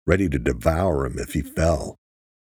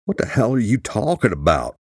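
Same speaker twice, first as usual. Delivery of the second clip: higher-pitched, mildly baffled question; confused; 5 semitones higher than usual. A narrator's reading. Rhodes reacting to Jack's sudden outburst, confused. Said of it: "Rhodes was confused".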